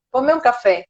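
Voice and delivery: plain, matter-of-fact order; direct imperative. Acted. Customer walking into a bar and ordering coffee, directly. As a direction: order it directly, ending on a fall. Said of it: "alguém chega num bar e fala assim".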